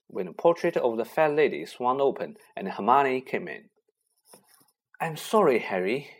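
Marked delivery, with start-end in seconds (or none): 5.0-6.1 wailing. Acted. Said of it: "she wailed".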